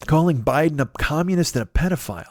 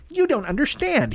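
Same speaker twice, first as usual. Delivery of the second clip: much higher-pitched mimicking plea; mock protesting; 11 semitones higher than usual. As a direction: imitate a humiliated man pleading his case. Mimics humiliated host explaining himself.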